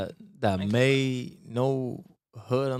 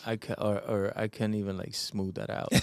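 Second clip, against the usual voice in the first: raspy voice; 5 dB quieter than usual. Real, not acted. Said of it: "my voice so raspy".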